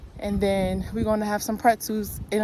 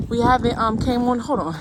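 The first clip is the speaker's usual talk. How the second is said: breathless after the climb; puffing between words, out of breath; 3 dB louder than usual. Real, not acted. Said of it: "Let me catch my breath".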